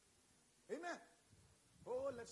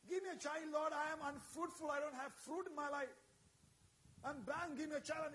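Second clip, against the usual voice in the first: pleading prayer pitched higher, a touch of tears; mock crying plea; 3 semitones higher than usual. Preacher voicing barren Hannah begging God, mildly tearful. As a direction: press harder, begging for a child. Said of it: "cry and cry and cry and say".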